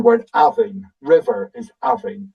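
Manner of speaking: Avin stressed on its first syllable. Shown as a demonstration. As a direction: hit the start of Avin and relax the ending. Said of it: "the emphasis on the first".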